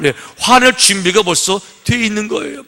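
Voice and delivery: preacher's shout. Acted. Preacher driving home readiness to explode, shouting. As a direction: shout the point out.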